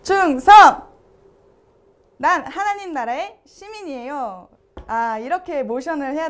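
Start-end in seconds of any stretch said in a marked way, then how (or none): 0.0-4.5 barked military salute then proud line; loud gung-ho soldier. Shown as a demonstration. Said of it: "홀리가 한번 보여주도록 하겠습니다".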